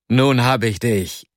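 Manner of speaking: gleichmäßig, ohne Triumph gesprochen; leicht gerufen, langsam. Acted. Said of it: "rief er". (leicht gerufen, langsam ausgekostet)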